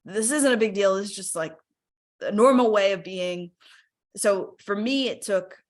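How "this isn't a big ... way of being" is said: dismissive self-talk. Retold or imitated. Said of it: "I would minimize them and I would say".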